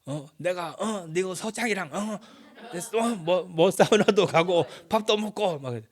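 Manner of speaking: high-pitched movie tough-guy impression with grunted "어"s; Choi Min-sik. Preacher imitating a film character boasting of connections, swaggering impression. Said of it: "그 최민식이 나와서 뭐".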